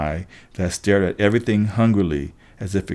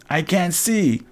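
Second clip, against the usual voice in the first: yelled; 9 semitones higher, slower than usual. A narrator's reading. All three sisters yell as the eye is lost, high cry. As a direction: wail it high, contained in volume. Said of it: "all three sisters yelled".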